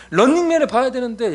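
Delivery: high, loud imitation of kid's protest; whining child. Daughter putting off family worship for TV, mock child whine.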